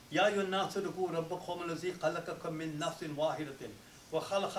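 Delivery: fast, flowing liturgical Arabic recitation; Arabic khutbah recitation. Real, not acted. Imam reading the wedding khutbah to the congregation, fast recitation. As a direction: rattle through the formal Arabic sermon opening, fast.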